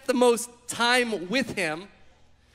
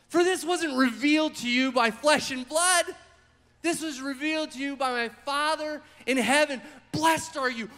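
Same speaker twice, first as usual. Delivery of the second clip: excited; 4 semitones higher than usual. Acted. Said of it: "He was so excited".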